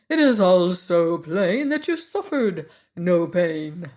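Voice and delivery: lightly voiced pompous bug; Woggle Bug voice. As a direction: puff up like a know-it-all bug.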